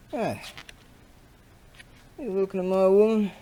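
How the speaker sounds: put-on high, loud, fast challenge from a drunk bloke; aggressive pub bloke. Pub bloke picking a fight, loud challenge. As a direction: snap it out like a pub brawler. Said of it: "like in the Aussie pubs".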